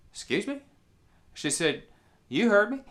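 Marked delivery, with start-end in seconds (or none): 0.1-0.6 startled, pitch jumping up high; a stunned double-take question; incredulous. Retold or imitated. Deputy can't believe what he heard. 2.3-2.8 firm and louder, pitched up; old lady snapping back, louder; insistent. Retold or imitated.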